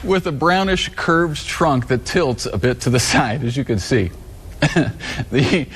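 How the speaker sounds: holding back giggles while reading; suppressed laughter; trying not to laugh. Real, not acted. Anchor reading through suppressed laughter.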